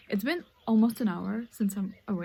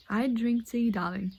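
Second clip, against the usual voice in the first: posh tea reply. Pretend. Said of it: "Re-, read over, do over".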